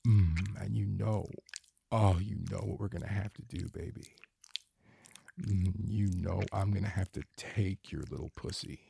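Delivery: breathy, moaning intimate voice throughout; sensual erotic roleplay. Acted. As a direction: murmur it like a lover lost in pleasure.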